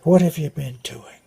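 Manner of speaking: lightly voiced Irishman's lilt; Irish brogue. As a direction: imitate an Irish priest gently chiding. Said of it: "speaking with an Irish brogue".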